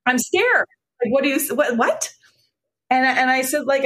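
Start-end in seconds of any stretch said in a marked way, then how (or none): 0.0-2.1 a hint of a worried Bronx father, higher; mock panicked father pleading; alarmed dad. Daughter retelling her father's alarm at her drug use, voice raised. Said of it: "And he's like".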